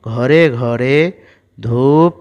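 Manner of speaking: put-on slow, careful reading for young learners; syllable by syllable classroom reading; slow reading aloud. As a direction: read each word out slowly for a child.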